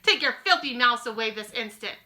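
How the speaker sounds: loud furious order; shouting. Acted. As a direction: throw them out at full volume.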